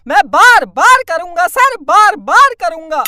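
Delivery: loud, defiant hero vow; filmi vow. Acted. Student vowing to the teacher, loud defiant declaration. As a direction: declaim it like a film climax.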